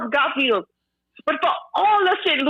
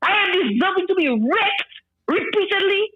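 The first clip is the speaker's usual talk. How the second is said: higher-pitched, incredulous questions; indignant; 3 semitones higher than usual. Real, not acted. Woman asking host if politics earns such threats, indignant. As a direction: throw each reason back as an outraged question.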